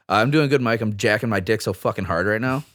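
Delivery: bone-dry and matter-of-fact, no hint of a joke; deadpan. Answering a telemarketer named Mike with total deadpan. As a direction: state it flatly like it's nothing unusual. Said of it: "if you say it deadpan like that".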